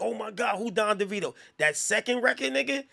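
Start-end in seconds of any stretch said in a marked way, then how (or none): 0.0-1.3 higher, amazed mock reaction; mock wow from a radio listener; excited reaction. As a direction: sound blown away by the song. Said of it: "it wouldn't be like".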